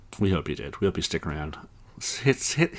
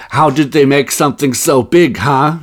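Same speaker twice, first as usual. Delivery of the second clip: Christoph Waltz scientist; 6 semitones higher, 8 dB louder than usual. Retold or imitated. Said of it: "Christoph Waltz is the scientist who's like".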